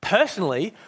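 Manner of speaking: "personally" said pointedly, with deliberate emphasis; emphatic personally. A narrator's reading. Big ghost insists on his own opinion, emphatic "personally". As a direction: lean on the word "personally". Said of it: "with an emphasis that contradicted the ordinary emphasis".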